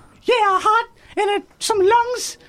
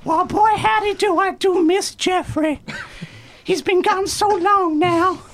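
slow folksy drawl; slower than usual. Acted. Kidney character, slow folksy.

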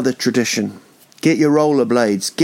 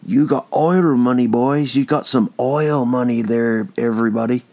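put-on mixed cowboy accent. To the listeners about oil money, a drifting Texan-pirate accent. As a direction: ham up a wandering Wild West accent. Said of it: "Don't know what that accent was".

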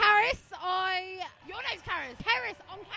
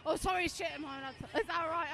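softer, sheepish aside after swearing; embarrassed aside; 3 semitones lower, 9 dB quieter, much faster than usual. Real, not acted. Young woman apologizing to interviewer for swearing, quiet sheepish aside. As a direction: drop the voice, half to yourself, checking it's okay.

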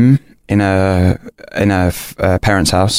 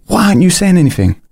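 put-on higher-pitched girlfriend voice, insistent question; imitating girlfriend; 10 semitones higher than usual. Girlfriend demanding why he's silent, higher mock voice. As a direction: mimic her pressing him for an answer. Girlfriend confronting him, quoted.

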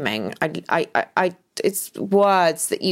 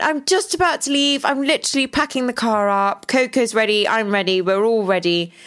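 bright, higher, breezy and busy; breezy reassurance; 6 semitones higher than usual. Retold or imitated. Telling husband she's about to leave, breezy and high. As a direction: brush him off cheerfully, much higher. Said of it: "I answered the phone and I went".

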